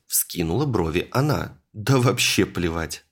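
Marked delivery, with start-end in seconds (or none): 1.7-3.0 brushing it aside; dismissive. Acted. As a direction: shrug it off carelessly. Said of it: "отмахнулся я".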